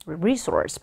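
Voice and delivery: "resource" stressed on the first syllable, RE-source. Shown as a demonstration. Teacher models pronunciation for students, stress on first syllable of "resource". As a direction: hit the RE in "resource". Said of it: "이름절 강세 주시면 됩니다".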